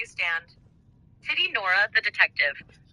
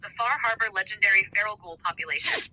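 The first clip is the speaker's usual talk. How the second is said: wrestling promo; 4 dB quieter than usual. Acted. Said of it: "wrestling style".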